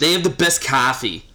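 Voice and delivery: mock Boston local praising the coffee; broad put-on Boston vowel in coffee; Boston accent. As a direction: imitate a Boston regular. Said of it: "I'll go with Boston on that one".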